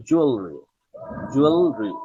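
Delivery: জুয়েলারি as "JUAL-ri"; জুয়েলারি with the "la" squeezed out; model pronunciation. Shown as a demonstration. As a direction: drill জুয়েলারি firmly, falling. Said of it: "এটার উচ্চারণ হচ্ছে জুয়েলারি".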